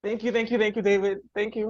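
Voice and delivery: quiet, choked-up thank-yous; thanking through real tears; soft, teary gratitude; tearful thanks. Real, not acted. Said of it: "why I'm crying".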